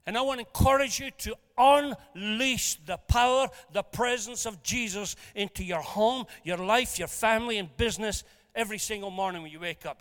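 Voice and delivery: rousing sermon push, building then settling; preaching. Acted. Preacher urges the congregation about their mornings, rousing. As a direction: urge the congregation forward.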